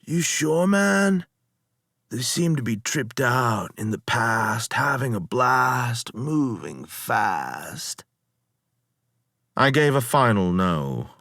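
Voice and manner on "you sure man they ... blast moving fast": lazy slurring stoner voice, pitched up; laid-back surfer dude, words sliding together; slurred stoned dude. Acted. Lotus eater reassuring the captain, slurred stoner voice. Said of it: "Their speech was slurred".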